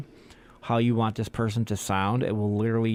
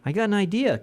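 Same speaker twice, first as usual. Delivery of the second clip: mocking voice; 8 semitones higher, faster than usual. Acted dialogue from the rude theater.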